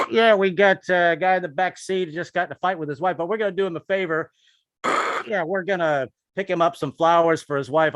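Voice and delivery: cop on the radio. Retold or imitated. Cops mocking on the radio.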